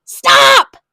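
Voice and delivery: put-on high, loud child shout; child shouting at the man; loud yell. A narrator's reading. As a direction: yell at him to stop. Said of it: "Taya yelled very loudly".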